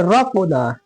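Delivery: रक़ना begun with a thick "ro"; heavy ra. Shown as a demonstration. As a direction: make the र in रक़ना full and heavy. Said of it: "इसको मोटा".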